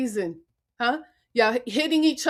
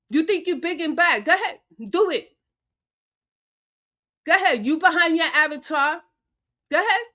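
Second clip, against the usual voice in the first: taunting dare; 3 semitones higher than usual. Real, not acted. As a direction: goad him to go ahead and speak. Daring an opponent to speak.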